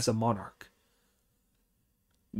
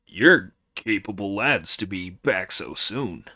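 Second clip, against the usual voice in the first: booming demon lord; 4 semitones lower than usual. Acted. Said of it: "said the Demon King with delight".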